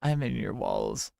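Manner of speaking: mock creepy wall lurker. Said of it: "that voice swapping".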